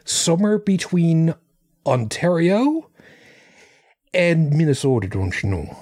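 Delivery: slow, drawn-out Minnesota lilt; playful Minnesota accent. Pretend. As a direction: lean into the Minnesota drawl, don't you know. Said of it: "North Dakota accent".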